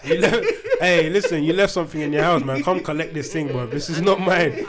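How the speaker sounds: laughing through a pretend call; giggling as he acts it out; laughing mock phone call. Acting out phoning to collect.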